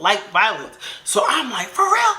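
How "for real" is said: retold challenge. Acted angry challenge with knife.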